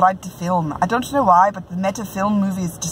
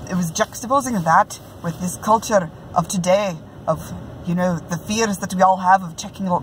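a lightly put-on Scottish brogue, amateur attempt; Scottish accent, self-consciously hammed. Reviewing a book in a playful Scottish brogue. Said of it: "in my best Scottish brogue".

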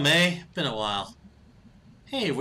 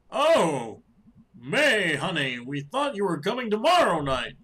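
voiced mom; 3 semitones higher, 6 dB louder than usual. Voicing mother character.

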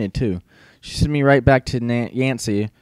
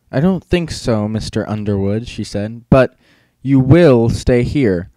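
slow, menacing teacher's command; stern teacher; slower than usual. Acted. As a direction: drag out the order coldly. Stern teacher threatens student.

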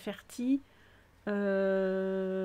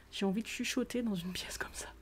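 whisper; 6 dB quieter than usual. Real, not acted. Streamer touring a friend's bedroom, whispering out of instinct. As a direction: hush your voice instinctively in a cosy little room. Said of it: "D'instinct, je chuchote".

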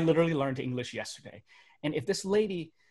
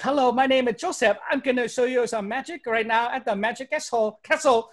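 high, loud put-on Vietnamese accent; hammed-up Vietnamese accent, pitched up for the stage; mock Vietnamese accent; 9 semitones higher, 5 dB louder than usual. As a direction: introduce yourself in a thick mock Vietnamese accent. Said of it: "I started doing my accent".

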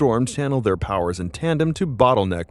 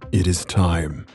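villain monologue; 4 semitones lower, slower than usual. Acted. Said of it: "Null begins his evil monologue".

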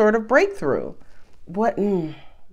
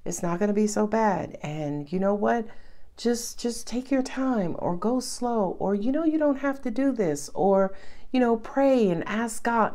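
nurturing reassurance; 4 dB quieter than usual. Retold or imitated. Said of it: "that nurturing that says".

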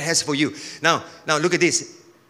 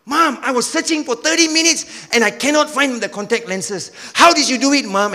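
mild surprise; 6 semitones higher than usual. Acted. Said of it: "the boy was shocked".

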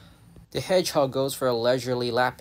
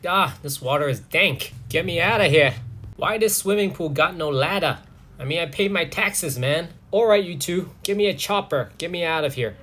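lightly voiced hedgehog grumbling about the water; indignant trapped hedgehog; 3 semitones higher than usual. Trapped hedgehog demanding rescue from the pool, indignant. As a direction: complain as a put-out animal, a bit higher. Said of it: "when it got down, it's like".

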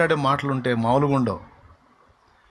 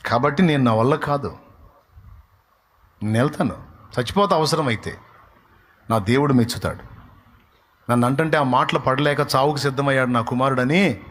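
lower, defiant dismissal of the scoffers; David brushing them off; 3 semitones lower than usual. Retold or imitated. David tells off the doubting soldiers, lower and defiant. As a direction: shrug them off like a young warrior sure of his God. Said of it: "అని దులిపేసిపోయాడు".

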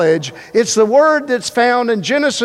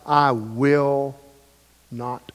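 mock stubborn refusal; 8 semitones lower, 6 dB quieter, much slower than usual. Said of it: "a Christian said to God".

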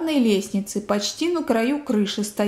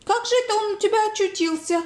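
high-pitched amazement, speeding up; astonished gasping; 11 semitones higher than usual. A narrator's reading. Old woman recognising her grandson's suitcase, high astonishment. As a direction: exclaim high, then rush the question. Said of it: "ахнула Анна Петровна".

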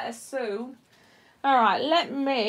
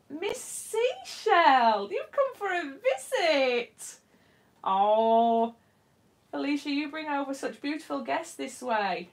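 muffled behind a respirator mask; through a respirator; 4 semitones higher, slower than usual. Real, not acted. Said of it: "breathing through my respirator".

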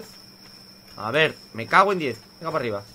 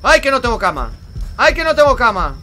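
high, loud, falling lament; loud wailing; 9 semitones higher, 8 dB louder than usual. Real, not acted. Gamer about to die without a bed, loud wailing.

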